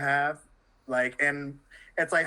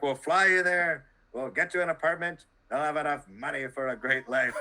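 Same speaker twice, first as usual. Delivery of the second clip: bad South Park accent. Retelling the colleague's job offer in a silly South Park accent. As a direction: lightly imitate the colleague in a silly cartoon accent. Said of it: "presented to you with the accent of a South Park character".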